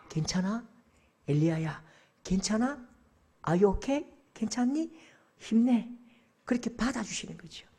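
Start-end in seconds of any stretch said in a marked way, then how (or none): 0.1-5.9 hushed, caring reassurance; still small voice. Acted. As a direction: coax gently, pausing after each question. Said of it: "세미한 소리로 다가오시면서".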